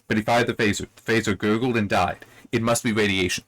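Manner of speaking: lines run together with no beat; "But he fired the phaser. The phaser gurgled and died. It must be radiation." rushed straight through; no pause. Shown as a demonstration. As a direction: read it without letting anything settle. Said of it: "There's no pause".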